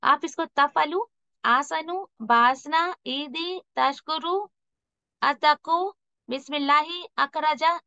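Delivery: तफअलु and the other words said quick and cut short, with no flow; wrong clipped reading. Shown as a demonstration. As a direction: rush each word, breaking the voice off. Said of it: "ऐसे नहीं पढ़ना है". (तफअलु को जल्दी, कटा हुआ, गलत तरीका)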